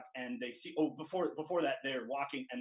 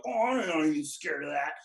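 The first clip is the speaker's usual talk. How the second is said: put-on cocky kid; 3 semitones higher, 6 dB louder than usual. Fat kid voiced in movie retelling.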